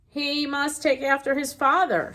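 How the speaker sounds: a critter making a gentle joke; teasing small animal voice. Acted. Skunk voice in story.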